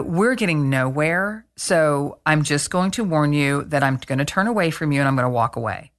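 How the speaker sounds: measured warning. Retold or imitated. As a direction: give calm, spelled-out notice before leaving. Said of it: "I said it like that".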